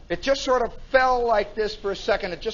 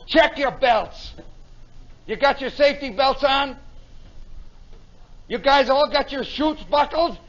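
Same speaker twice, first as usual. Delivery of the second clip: lieutenant's orders; 4 semitones higher than usual. Retold or imitated. Lieutenant calling orders to crew.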